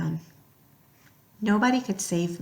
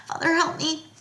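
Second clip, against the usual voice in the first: soft, higher desperate plea; pleading prayer; 7 semitones higher, 4 dB quieter than usual. Acted. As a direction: pray quietly for rescue. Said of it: "I prayed".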